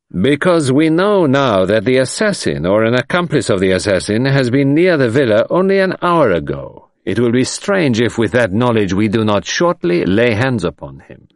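understated menacing warning. Acted. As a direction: promise the hunt will end soon. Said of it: "a note of menace in his voice".

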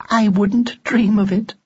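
high, slow and deadpan; deadpan doll teasing with a straight voice; too calm creepy doll. A narrator's reading. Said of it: "a noise that could only have been a giggle".

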